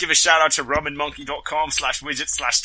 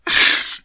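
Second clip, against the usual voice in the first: sudden laugh; 10 dB louder than usual. Real, not acted. Reacts to the failed joke.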